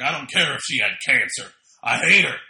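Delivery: put-on loud, ranting Brooklyn accent as Taz. Podcaster imitating Taz's rant, loud Brooklyn accent. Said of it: "that is also my Brooklyn accent".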